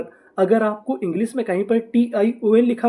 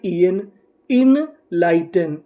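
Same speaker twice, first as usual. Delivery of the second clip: slow sounding out; 2 semitones lower, slower than usual. Shown as a demonstration. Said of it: "तो हमारी meaning क्या बनी?".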